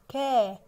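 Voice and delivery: long held كا; fatha sound. Shown as a demonstration. Teacher giving the first sound of dog, drawn-out كا. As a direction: stretch كا out, then pause. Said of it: "حرف الكاف وعليه فتحة".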